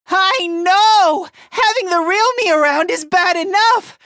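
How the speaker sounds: high, agitated agreement; flustered self-loathing. Acted. Fighter agreeing he is bad enough, flustered.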